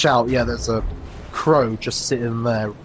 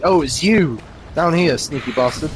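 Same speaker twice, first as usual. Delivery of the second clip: mocking tagline; 4 semitones higher than usual. Shown as a demonstration. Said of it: "Which is the tagline".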